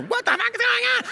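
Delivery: very high squawk of disbelief; mock shock. TikTok scroller reacting to next clip, mock shock. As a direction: squeal it in exaggerated bewilderment.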